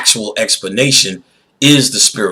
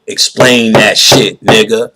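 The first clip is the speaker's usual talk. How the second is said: demanding; 5 dB louder than usual. Retold or imitated. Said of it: "and say".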